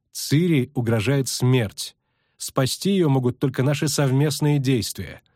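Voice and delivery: a touch of formal persuasion; measured pitch of an invitation to a secret order; lightly voiced, composed elf envoy; lightly voiced elf sorceress. Voices elf urging her choice.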